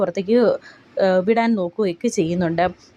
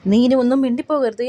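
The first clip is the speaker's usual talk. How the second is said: higher, louder threatening order; angry warning; 5 semitones higher, 4 dB louder than usual. Retold or imitated. Gokul dragging Sachi out, a loud angry threat. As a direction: bark it, forbidding another word.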